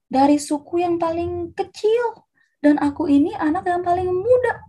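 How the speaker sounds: high, slowed plea of the smallest one; pleading protest. Acted. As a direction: object humbly, pitched well up. Gideão protesta ser pequeno.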